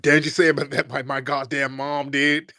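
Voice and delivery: high, whiny mock protest about his mom; hammed-up high indignant mimicry; mocking offended troll. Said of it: "he got real offended by that".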